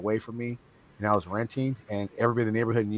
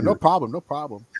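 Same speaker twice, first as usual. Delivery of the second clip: mock Asian-accented lawyer, higher pitched; Asian lawyer imitation; 4 semitones higher, 5 dB louder than usual. Lawyer reassuring his client, mock Asian accent. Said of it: "It was an Asian guy, too".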